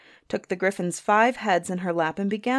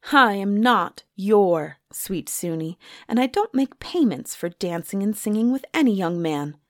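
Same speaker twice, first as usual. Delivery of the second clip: indignant retort. Acted. Suni rebuffs young Charlie's kiss, indignant. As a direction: put him in his place, word by word.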